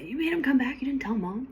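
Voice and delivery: yelling in a hoarse whisper; a scolding hissed under the breath; mock yell whispered. Sister scolding her brother for hiding it from Mom, whispered. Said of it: "So Lexi yells at him a little bit".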